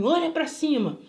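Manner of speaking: acted, insistent command; retold command. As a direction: imitate a stranger ordering someone. Retold bloodied man giving orders.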